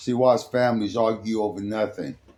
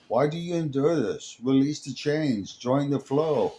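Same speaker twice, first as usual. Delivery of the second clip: higher, otherworldly, slowing at the end; eerie harmonic whisper; 5 semitones higher than usual. Acted. Alora leans to the young man, eerie and higher. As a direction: lure him gently in an alien voice. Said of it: "whispered in her harmonic tone".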